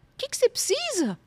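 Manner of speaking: high-pitched, quick imitated offer; eager offer of help. Helpful colleague asking what is needed, high and eager.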